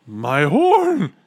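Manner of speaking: loud, high cry of alarm; high, stretched-out dismayed cry; gulping dismay. A narrator's reading. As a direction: wail it in shock. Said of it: "he gulped".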